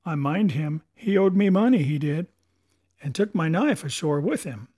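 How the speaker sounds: resentful seaman; aggrieved pirate sailor. Acted. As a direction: grumble about an old debt like a pirate. Morgan remembers Alardus.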